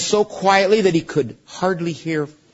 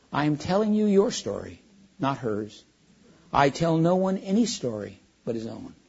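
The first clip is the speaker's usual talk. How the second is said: a hint of a vast, gentle lion; calm great voice; 4 dB quieter than usual. Aslan gently rebukes Shasta.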